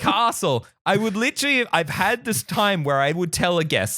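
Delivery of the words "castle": "castle" said as "KAH-sul"; higher, long ah in "castle"; Australian "castle". Shown as a demonstration. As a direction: stretch "castle" with a broad ah. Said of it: "I changed certain words".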